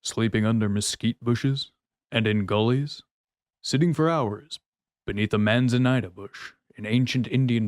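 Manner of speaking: a light impression of a singer reading liner notes; a hint of a singer, half-hearted. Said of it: "let me see if I can do a Johnny Cash".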